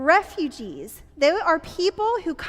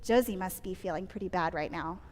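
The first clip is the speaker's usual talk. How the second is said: soft, low sympathetic murmur; empathetic thought; 7 semitones lower, 11 dB quieter than usual. Acted. Leader voicing her own thought about hurt Josie, quietly sympathetic. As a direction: think aloud gently, feeling for someone's pain. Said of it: "I think".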